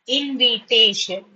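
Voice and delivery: "Invitation" slowly split as in-vi-tay-shun; four measured beats on "Invitation"; syllable by syllable. Shown as a demonstration. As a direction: sound out "Invitation" for learners.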